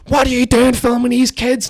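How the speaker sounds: very high, slow, loud mock screech; mimicked ranting woman. Woman off her head accuses teller of filming kids, mock screech. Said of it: "this woman is just slobbering at me".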